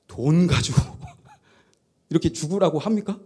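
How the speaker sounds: usual speaking voice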